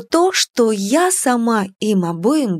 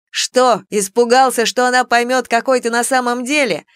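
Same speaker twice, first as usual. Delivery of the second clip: mocking exclamation; 4 semitones higher than usual. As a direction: taunt him with a smirk. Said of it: "воскликнул дракон".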